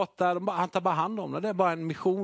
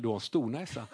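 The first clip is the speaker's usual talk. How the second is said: laughing; 4 semitones lower, 6 dB quieter than usual. Retold or imitated. Wife teasing, laughing.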